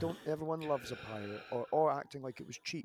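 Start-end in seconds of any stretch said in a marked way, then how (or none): 0.0-1.4 mock patronizing, louder and higher; put-on condescending enthusiasm. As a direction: imitate someone talking down, pushed up in pitch. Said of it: "in a really patronizing way".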